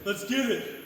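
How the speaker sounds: very high loud call, then dropping; hyped shout. Real, not acted. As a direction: fire yourself up for the finish. Pumping himself up mid-workout.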